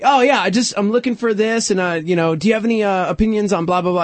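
lightly put-on surfer dude; surfer mode. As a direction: slip into easygoing surfer talk. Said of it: "surfer mode".

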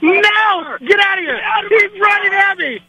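panicked high yelling while fleeing; being chased. Real, not acted. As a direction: shout in alarm as someone runs at you. Friend chasing him to car.

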